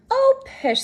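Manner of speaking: high, scoffing pish; a light scoff; dismissive. A narrator's reading. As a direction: brush the teasing aside. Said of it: "said Mother".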